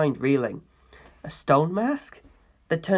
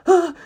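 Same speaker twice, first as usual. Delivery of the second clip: squeal; 12 semitones higher, 5 dB louder than usual. Acted. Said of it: "I squealed".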